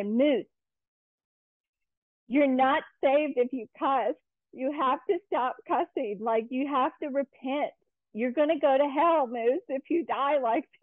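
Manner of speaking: imitated lecturing. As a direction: re-enact a kid earnestly lecturing grandma. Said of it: "have us lecture my grandma".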